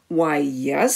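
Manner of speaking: a sly whispered yes; dragon whispering. Acted. Dragon answers Elizabeth.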